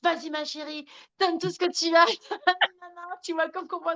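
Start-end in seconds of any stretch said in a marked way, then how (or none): 0.0-2.0 high, hammed-up cheering like a film husband; movie-style coach. Imitating her partner cheering her on like in films. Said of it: "comme dans les films". 2.1-3.2 high laugh. Real, not acted. Laughing at film cliché.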